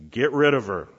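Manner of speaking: the disciples' side shouting her off; loud dismissal. Shown as a demonstration. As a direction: shove her away with the voice. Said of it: "you respond".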